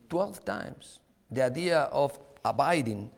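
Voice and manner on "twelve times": "Twelve times" repeated much softer; hushed repeat of "Twelve times"; soft echo. Acted. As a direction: let "Twelve" fall to a quiet echo. Preacher echoing his own point.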